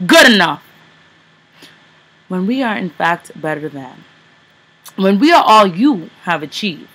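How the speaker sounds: forceful, measured slam-poetry delivery; spoken word poem. Acted. Poet performs Whitewashed to an audience, impassioned spoken word. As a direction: declaim it like a poet on stage. Poem continues after laugh.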